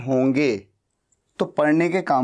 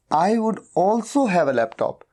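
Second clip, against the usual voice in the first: slow model sentence; much slower than usual. Shown as a demonstration. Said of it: "teacher models corrected sentence".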